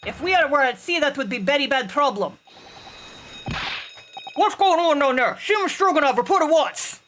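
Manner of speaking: lightly voiced shouting crewmen; alarmed sailor. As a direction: yell down about the alarm.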